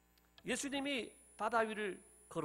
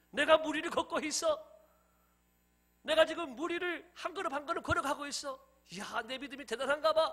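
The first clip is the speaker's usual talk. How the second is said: raised voice, marveling at oneself; 우쭐한 감탄; 7 semitones higher, 6 dB louder than usual. Acted. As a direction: act a touch puffed up with your own feat. Peter marvels at himself, acted. (우쭐해서 들뜬 목소리로 감탄)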